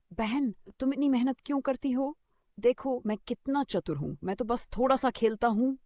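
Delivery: hoog, speels kraaienstemmetje; crow voice. Acted. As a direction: play the boastful crow, high and light. Crow speaks to sparrow.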